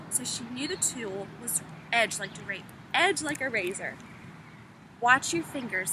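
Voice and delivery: unhurried read-aloud storytelling voice; expressive classroom read-aloud; story narration. Acted. Teacher resumes reading the novel.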